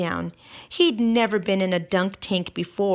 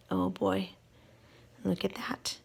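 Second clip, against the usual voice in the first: hushed, breathy whisper; 10 dB quieter than usual. Acted. Reader shows children George's sticky mess, whispered. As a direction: whisper it like a secret discovery.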